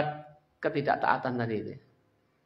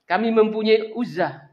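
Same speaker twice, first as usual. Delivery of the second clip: boastful shout; 7 semitones higher, 6 dB louder, slower than usual. Acted. Abu Sufyan boasts loudly.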